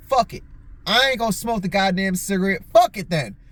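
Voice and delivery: mildly fed-up outburst; giving up in mock annoyance; retold frustration. Smoker retelling a fruitless lighter hunt, mildly frustrated. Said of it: "getting pissed off and frustrated".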